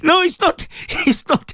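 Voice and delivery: high-pitched protest through laughter; real amused laughter. Real, not acted. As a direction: laugh while brushing it off. Laughs at a listener's message.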